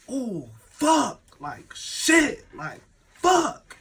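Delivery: high, put-on exasperated swearing; boy cursing. Boy in the back swears after incident, high mimicked cursing. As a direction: imitate someone cursing himself from the back. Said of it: "the boy in the back like".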